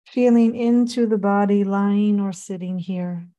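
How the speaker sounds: unhurried meditation guide, long pauses between phrases; measured body-scan guidance with room to breathe; guided meditation. Acted. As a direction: lead them gently through a body scan, phrase by phrase.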